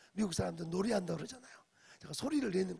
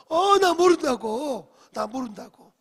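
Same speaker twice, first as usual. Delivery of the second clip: loud, higher, slow shouted denial; panicked denial; 6 semitones higher, 15 dB louder, slower than usual. Retold or imitated. Peter denies knowing Jesus, loud panicked shout. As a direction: shout the denial to get them off.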